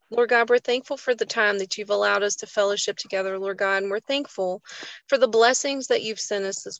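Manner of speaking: earnest spoken prayer, falling to a hush on Lord. Acted. Host opening the group prayer, earnest and reverent. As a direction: pray it humbly to God.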